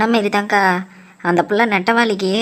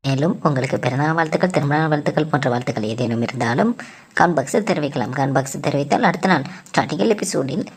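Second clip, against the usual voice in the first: lower-pitched announcement read; channel outro announcer; 5 semitones lower, faster than usual. Acted. Asking viewers to like and subscribe, announcer read.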